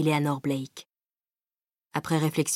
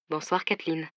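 murmured; 7 dB quieter than usual. A narrator's reading. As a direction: murmur it intimately down the phone. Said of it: "murmura-t-il". (murmuré doucement)

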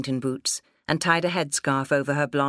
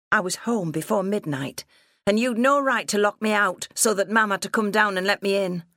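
put-on higher-pitched protesting young woman; indignant daughter; 6 semitones higher than usual. Daughter protesting at being locked out, indignant. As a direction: argue back with rising indignation. Daughter argues back at father.

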